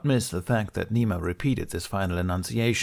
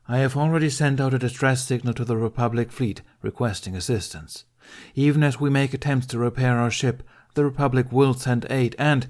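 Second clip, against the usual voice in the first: raised, higher commanding address to the refugees; Jedi addressing a crowd; 5 semitones higher, 4 dB louder than usual. Acted. Ben addresses the frightened crowd, firm and raised. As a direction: speak up to fill a cargo bay.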